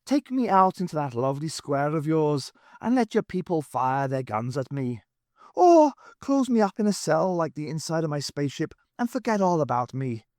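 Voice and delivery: a touch of put-on mourning; mournful. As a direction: Irishman mournfully begging to die. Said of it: "said Pat mournfully".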